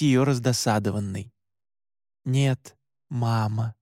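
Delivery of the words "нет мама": mock tender. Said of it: "притворно ласково ответил я".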